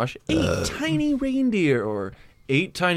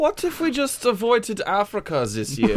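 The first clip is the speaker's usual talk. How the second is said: higher mock German accent; raised German character voice; German Blitzen; 6 semitones higher than usual. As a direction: slyly suggest it as a German reindeer. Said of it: "Blitzen, what do you think?".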